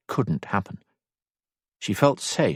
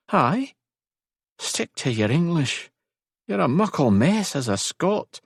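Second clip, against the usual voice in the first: teasing Scottish lilt, pitched higher; smiling; 9 semitones higher than usual. A narrator's reading. Rory teases Elisand about her accent, smiling. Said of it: "a smile now in his voice".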